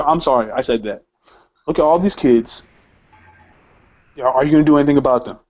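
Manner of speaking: toned-down retold apology, then appeal; restrained, conciliatory retelling; de-escalating. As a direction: back off and ask it calmly. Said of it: "I try to de-escalate the situation".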